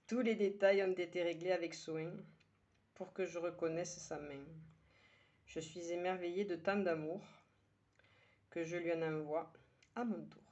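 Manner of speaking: measured verse reading with pauses between lines; poem recitation. Acted. Poet sharing today's poem with her listeners, measured recitation. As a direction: recite it line by line, letting each one settle.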